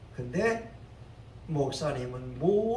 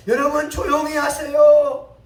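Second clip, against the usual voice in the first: Son Yang-won; 8 semitones higher, 12 dB louder than usual. Acted. Pastor hushes the murmuring crowd.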